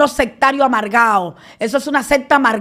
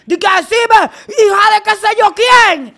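louder, higher mock insult; mock demonic yelling; 6 semitones higher, 3 dB louder than usual. Imitating the preacher cursing her with rolling eyes, loud and high. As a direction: yell it like a possessed preacher. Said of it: "De que me salga un demonio".

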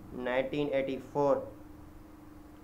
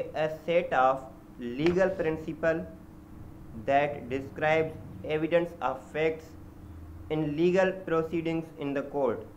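slow, word by word, as if dictating notes; slow dictated definition; much slower than usual. Shown as a demonstration. Teacher dictating a legal definition to students, very slow and deliberate. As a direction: spell the definition out slowly for students to write down. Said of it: "definition बता दूं".

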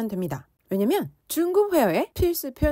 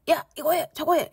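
higher-pitched bossy mock commands; aggressive orders; 5 semitones higher than usual. Teacher imitating someone making irrational demands, aggressive tone. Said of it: "굉장히 공격적인 말투로".

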